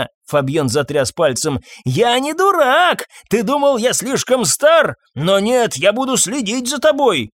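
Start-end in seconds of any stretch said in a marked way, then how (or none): 1.8-7.3 furious threat. Acted. Master to groom, furious threat. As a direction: swear you'll be watching him.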